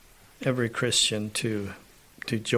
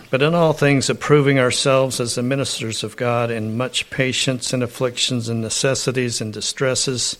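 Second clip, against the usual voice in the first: louder, rising preacher's reading of the list; scripture reading; 4 dB louder than usual. Acted. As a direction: build each "by" phrase like a proclamation. Reads scripture list aloud.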